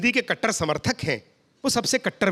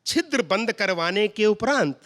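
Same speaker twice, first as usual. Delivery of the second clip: formal pure hindi. Retold or imitated. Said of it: "शुद्ध हिंदी में मैंने बताया".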